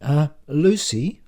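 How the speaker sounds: tentative, drawn-out interjection; gentle, hesitant call; gently. A narrator's reading. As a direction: slowly try to get her attention. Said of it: "I say gently".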